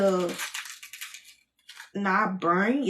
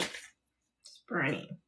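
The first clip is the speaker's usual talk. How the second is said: much softer and slow, strained by stinging eyes; weak, drawn-out "burning" from onion tears; pained, fading complaint; 7 semitones lower, 12 dB quieter, much slower than usual. Real, not acted. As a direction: let it trail off in real discomfort. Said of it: "this is not funny".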